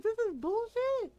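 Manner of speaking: put-on sulking boyfriend protests the roast, high and slow; mock whiny boyfriend. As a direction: whine it like a sulking man.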